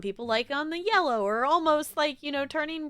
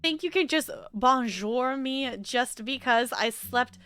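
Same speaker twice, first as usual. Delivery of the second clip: French cat voice. Pretend. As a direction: sniff at the humans in French accent. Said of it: "Bonjour, Frou Frou".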